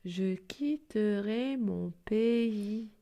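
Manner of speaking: slow, careful recital of a poem; measured poem reading. Acted. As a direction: read each line slowly for children. Reads the poem slowly.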